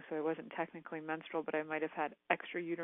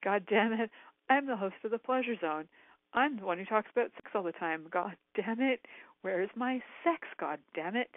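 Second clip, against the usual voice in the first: retold indignant outburst, somewhat raised; mock-furious venting, punching the curses; pissed-off rant; 2 semitones higher than usual. Podcast host venting about her missing sex life, pissed off. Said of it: "Like, I'm pissed off".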